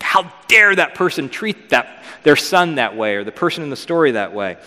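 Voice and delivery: a brief flare of acted outrage; retold fury. The speaker reacts to the woman's story, mock fury. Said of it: "He gets really furious".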